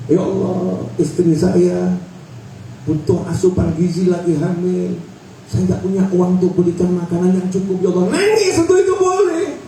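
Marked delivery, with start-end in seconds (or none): 0.1-8.2 low, halting plea to God; mock tearful prayer. Shown as a demonstration. Husband pleading to Allah for his pregnant wife, mild lament. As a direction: act out a mildly tearful prayer. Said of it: "Nangis, boleh".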